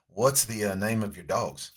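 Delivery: put-on Southern accent. Stranger asks a man about his dogs, Southern accent. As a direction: ask it in a light Southern US accent. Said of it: "Southern accent out here".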